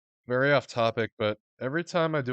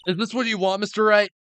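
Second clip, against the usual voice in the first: higher, lively courtroom characters; game character voices; 8 semitones higher, 9 dB louder than usual. Acted. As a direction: play the tense courtroom exchange.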